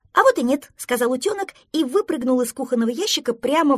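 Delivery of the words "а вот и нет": high, loud contradiction; defiant retort. Acted. Duckling quits the fishing game, defiant. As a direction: snap back in raised duckling voice.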